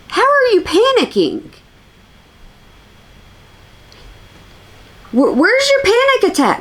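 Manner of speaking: high-pitched, disbelieving demand; incredulous questioning. Acted. Viewer watching her claim panic, incredulous high questioning. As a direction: swoop way up in baffled disbelief. Acts out own disbelieving reaction.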